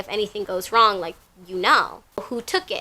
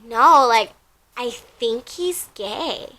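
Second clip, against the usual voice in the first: hammed-up clueless boyfriend; mocking boyfriend; slower than usual. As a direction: imitate him as clueless and slow. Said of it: "And he's like".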